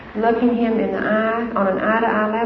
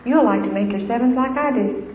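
encouraging parent; 2 semitones higher than usual. Retold or imitated. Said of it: "You know what my husband says?".

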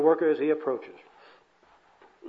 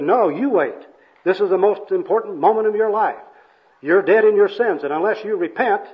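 loud, raised evangelist urgency; hammed-up street-preacher warning; insistent preaching; 5 semitones higher, 6 dB louder than usual. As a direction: press the sinner to repent, forcefully. Acted evangelist presses the bum.

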